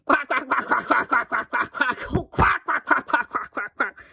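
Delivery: quacks like a bird laughing; laughing duck quacks. A narrator's reading. Duck laughing down the phone at the girl. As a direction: cackle through the quacks. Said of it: "like a bird laughing".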